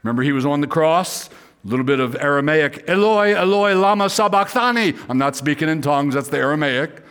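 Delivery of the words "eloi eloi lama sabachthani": high, sustained cry of anguish. Acted. Preacher voices Jesus on the cross in Aramaic, crying out. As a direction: call it out on a raised pitch. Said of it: "Jesus cried out to the Father".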